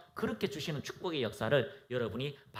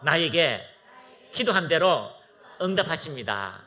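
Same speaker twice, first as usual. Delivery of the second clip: loud confession; 7 dB louder than usual. Real, not acted. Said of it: "자, 한번 고백합니다".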